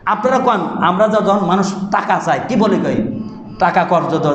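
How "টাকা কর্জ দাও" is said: "কর্জ" said with a plain j, low; everyday "কর্জ". Shown as a demonstration. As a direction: ask for a loan, everyday style. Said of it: "তাই কই না". (সাধারণ উচ্চারণে "কর্জ")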